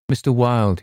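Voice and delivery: a light doubting echo of Mister Wilde; repeating the name. A narrator's reading. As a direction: echo Mister Wilde back, faintly skeptical. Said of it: "he repeated".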